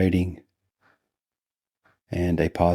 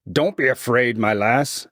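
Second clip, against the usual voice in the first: higher woman's voice, fond and sly; 5 semitones higher than usual. A narrator's reading. Sister to Laura by the bed, fond and sly. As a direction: coax fondly in a put-on sister voice. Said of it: "her voice sounded fond and sly".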